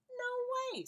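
high, loud outburst; Farmer Brown refusing. A narrator's reading. Teacher reading Farmer Brown's loud refusal, high and loud. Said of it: "said Farmer Brown".

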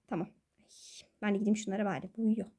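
laughing whisper so he stays asleep. Real, not acted. Girl whispers near a sleeping friend. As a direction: breathe it out quietly.

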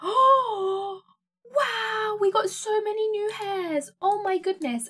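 high, loud, choked-up gush over new hairs; real happy tears; near tears with delight. Real, not acted. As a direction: voice catching, overwhelmed with joy. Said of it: "I'm gonna cry at everything".

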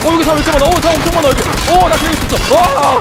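high, loud excited callout. Real, not acted. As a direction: call it out, thrilled. Sees many enemies at shelter. (신나서 외치는 목소리)

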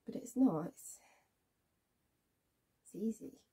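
low, very soft, halting voice; hushed confrontation. Acted. Woman facing Ray after years apart, hushed and halting. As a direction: speak quietly, with long pauses between thoughts. Tense reunion, confronting man from past.

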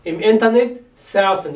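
SURFEN said as English "surf" plus -en; English-style surfen. Shown as a demonstration. Teacher shows students the borrowed word, English-style SURFEN. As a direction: keep the English vowel in SURFEN. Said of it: "جاية الإنجليزي وبنطقها كده".

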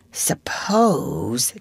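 breathy whispered suppose; husky whisper. Acted. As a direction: whisper it hesitantly, afraid to say it. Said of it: "John said a little huskily".

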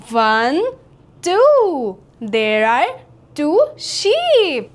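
ordinary delivery

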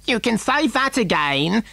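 high, slow affronted mother; Missus Gloop. A narrator's reading. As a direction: agree huffily in a high, stretched voice. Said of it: "said Missus Gloop".

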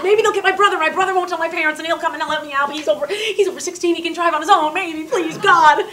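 put-on a kid begging under her breath; hopeful pleading thought.

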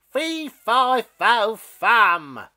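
a mean beanstalk roaring at a castle. Acted. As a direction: roar each word. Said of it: "roared the mean stalk".

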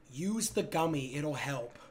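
slow, strained speech; talking with a burning mouth; mouth burning from spicy food. Real, not acted. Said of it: "My mouth is burning".

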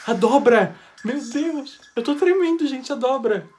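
high, gushing amazement; trembling excitement. Real, not acted. Fan seeing the Fold in the trailer, thrilled. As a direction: burst out in real fan excitement.

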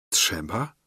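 a quiet questioning murmur to himself. A narrator's reading. Man puzzling over her word, quietly to himself. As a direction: ask it inwardly, half under breath. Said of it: "rzekłem sam do siebie".

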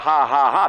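loud, deliberate mock laughter; forced laugh. Shown as a demonstration. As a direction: punch out each "ha" on purpose. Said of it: "If you have to go".

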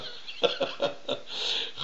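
a quiet unvoiced chuckle; soft breathy laugh. Real, not acted. Host laughing to himself after quoting a catchphrase, softly.

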